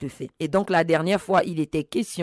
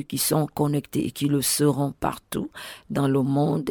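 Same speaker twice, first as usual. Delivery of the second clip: prayer; 2 semitones lower than usual. Real, not acted. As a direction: pray steadily and reverently, pitched down. Leads an opening prayer.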